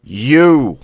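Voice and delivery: "You" thrust out high and loud; sharp blast. Shown as a demonstration. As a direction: punch "You" out with all your air. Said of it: "You thrust out quickly, sharply".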